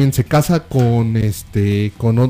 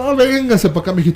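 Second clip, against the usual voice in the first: higher, sweet motherly coo; mock tender mother; 6 semitones higher than usual. Mother welcoming her son home, higher and cooing. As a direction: imitate the mom calling her boy close.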